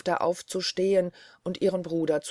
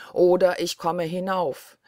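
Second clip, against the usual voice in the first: Blaubart calling; 5 dB louder than usual. Acted. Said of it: "rufte Blaubart noch einmal".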